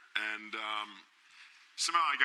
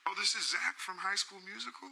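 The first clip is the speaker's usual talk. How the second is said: high, imitated caller voice; a pop singer; 9 semitones higher, 3 dB quieter than usual. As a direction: imitate him in a high pitch. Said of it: "And he goes".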